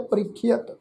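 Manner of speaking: "ਪ੍ਰੀਖਿਅਤ" with long ree and short khi-at; demonstrated pronunciation. Shown as a demonstration. Teacher showing the congregation how to recite, careful pronunciation. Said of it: "ਅਸੀਂ ਪਾਠ ਉਚਾਰਨ ਕੀਤਾ ਹੈ".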